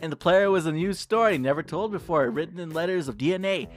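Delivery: gentle, solemn recital; tender poem reading. A narrator's reading. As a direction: tell a newborn its own story. Reads poem aloud dramatically.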